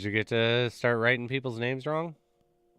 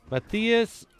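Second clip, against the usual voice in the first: higher, louder imitation of a name call; mock name call; 11 semitones higher, 7 dB louder than usual. Imitating a barista getting his name wrong, mock name call. Mimics names called out wrongly at Starbucks.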